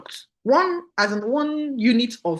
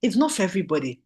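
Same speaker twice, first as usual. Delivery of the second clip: unbothered reassurance; 3 semitones higher than usual. Retold or imitated. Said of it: "I say".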